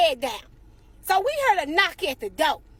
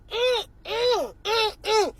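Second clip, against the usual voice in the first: mock disgusted humming; 5 semitones higher, much slower than usual. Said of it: "I heard Kai screaming out".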